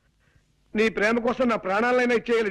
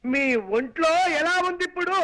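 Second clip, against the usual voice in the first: a bit louder, spelled out clearly; 2 semitones higher than usual. Acted. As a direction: say it so she can hear. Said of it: "కాస్త వినబడేలా మాట్లాడు". (కొంచెం గట్టిగా)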